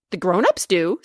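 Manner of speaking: a touch of indignation; indignant. Acted. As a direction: huff it back, offended. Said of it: "said Macrina indignantly".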